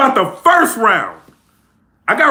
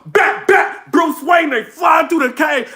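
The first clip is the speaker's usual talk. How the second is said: shouted and higher, the bars rapped again; shouted battle rap replay; 5 semitones higher, slower than usual. Retold or imitated. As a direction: bark the bars once more for the replay.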